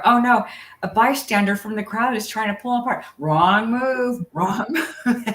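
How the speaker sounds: high, laughing play-by-play of the fight; laughing commentary. Retold or imitated. To her listener, retelling her own fight commentary, laughing. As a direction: laugh through the call as she retells it.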